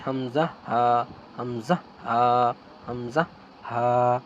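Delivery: হামজা from the start of the throat, হা breathy; Arabic letter demo. Shown as a demonstration. Teacher repeating letters for viewers, articulated. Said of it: "কণ্ঠনালীর শুরু হতে উচ্চারিত হয়".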